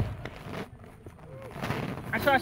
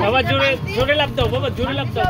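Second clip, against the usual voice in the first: calling out cheerfully; 5 semitones higher, 4 dB louder, faster than usual. Real, not acted. Father cheering child on jumping.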